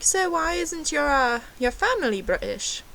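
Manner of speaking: high mock American waiter; American accent. Waiter questioning the fake Brit's family, high imitated American accent. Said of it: "That's my American accent".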